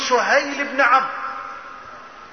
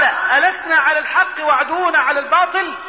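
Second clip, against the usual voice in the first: raised-pitch insistent question; distressed challenge; 4 semitones higher than usual. Retold or imitated. Umar pressing the Prophet, distressed insistent challenge. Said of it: "مش قادر يتحمل".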